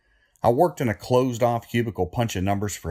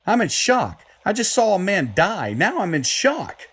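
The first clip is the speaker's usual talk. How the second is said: panicked shock; 9 semitones higher than usual. Acted. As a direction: blurt it out, reeling from what you just saw. Lionel panics after the killing.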